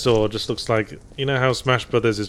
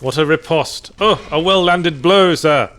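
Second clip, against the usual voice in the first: grand, slow, loud mock admiration; hammed-up theatrical praise for a jab; 6 semitones higher, 7 dB louder than usual. Mock praise after a comeback.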